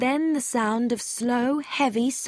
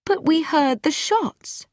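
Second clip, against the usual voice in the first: startled; 9 semitones higher, 3 dB louder than usual. A narrator's reading. Startled woman protests.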